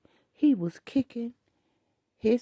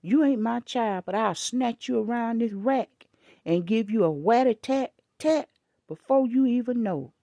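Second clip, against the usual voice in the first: daring threat; 4 dB louder than usual. Retold or imitated. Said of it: "I said".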